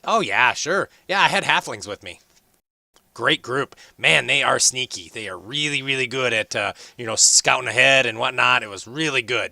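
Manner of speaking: high, loud, eager dwarf voice; chatty young dwarf. Acted. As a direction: bounce in as the cheerful young dwarf. Hori voiced again.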